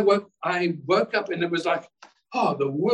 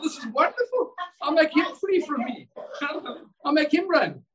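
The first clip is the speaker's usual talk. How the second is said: laughing through a higher voice; gleeful laugh; 9 semitones higher than usual. Retold or imitated. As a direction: chuckle with delight at beating the devil. Retold gleeful thought, laughing.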